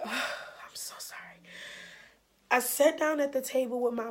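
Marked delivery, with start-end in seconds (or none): 0.0-1.2 whispery, slow, choked with tears; real tearful apology. Real, not acted. Apologizing to viewers as she breaks down, tearful. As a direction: sigh and apologize, voice giving out. Breaking down while telling her story.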